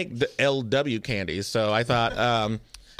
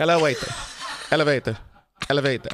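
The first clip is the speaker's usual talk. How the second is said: put-on Norwegian accent; faster than usual. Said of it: "Norwegian, baby".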